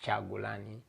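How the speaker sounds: "Chagulani" opening with a "ch" sound; "Chagulani" said CHA-gu-la-ni, plain final "ni"; pronounced variant. Shown as a demonstration. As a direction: say "Chagulani" with "ch" as in chat. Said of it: "some people pronounce it as Chagulani".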